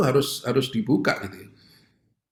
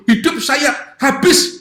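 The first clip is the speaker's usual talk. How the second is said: imitating a distraught woman, much higher and slow; a hammed-up panic, higher and slow; panicked wail; 12 semitones higher, 6 dB louder, much slower than usual. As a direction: drag out the despair as if life is over. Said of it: "waduh, Romo panik".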